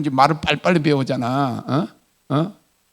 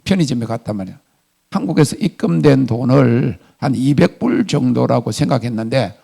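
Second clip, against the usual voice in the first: usual speaking voice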